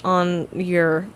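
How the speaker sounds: slow, laughing flight attendant read; half-hearted safety demo announcement; airplane safety announcement. Shown as a demonstration. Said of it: "airplane safety demonstration voice".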